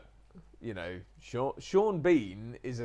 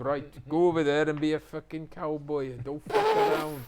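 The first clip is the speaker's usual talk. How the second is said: loud, higher Welsh director's order; Welsh accent; 4 semitones higher, 8 dB louder than usual. Retold or imitated. Welsh director ordering his actor about, brash Welsh accent. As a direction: boss the cast about in broad Welsh. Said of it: "He said".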